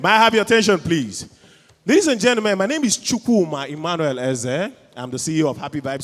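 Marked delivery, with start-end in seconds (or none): 0.0-1.3 loud, projected appeal; calling for attention. Real, not acted. Host to a noisy audience, loudly calling for attention. 1.9-4.7 raised, loud host's call; announcing to the room. Real, not acted. Co-host opening his introduction to the crowd, loudly announcing. Formally addressing the whole room.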